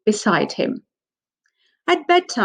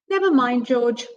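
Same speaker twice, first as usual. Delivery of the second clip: bright; 4 semitones higher than usual. Acted. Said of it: "says Mummy Pig brightly".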